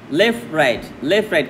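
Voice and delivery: লেফট right in paired, falling beats; marching rhythm. Shown as a demonstration. Teacher showing metre with a march, left right in two-beat rhythm. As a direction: call left right as if keeping step. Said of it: "বিভিন্ন ছন্দে এটা বলা যায়".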